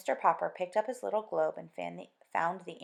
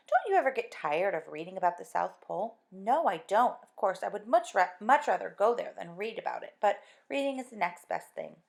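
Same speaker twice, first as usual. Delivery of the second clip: character voices; 6 dB louder than usual. Acted. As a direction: lively read dialogue. Dialogue voiced louder than narration.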